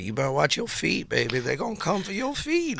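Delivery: hammed-up creepy clerk warning; spooky desk clerk. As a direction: tease the warning like an eerie hotel clerk. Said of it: "She's like, ... playing it up".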